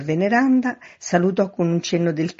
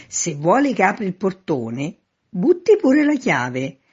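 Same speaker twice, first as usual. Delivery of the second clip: raised voice, rising high at the end; calling up; 5 semitones higher, 5 dB louder than usual. A narrator's reading. Man in street tells neighbour to throw key, calling up. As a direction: call it up to the window. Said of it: "gridò il signor Veneranda".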